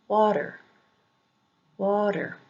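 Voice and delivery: "water" with a high WA, falling on the weak ending; "water" pronounced as a demo, high on WA; first-syllable stress. Shown as a demonstration. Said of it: "emphasis is usually on the first".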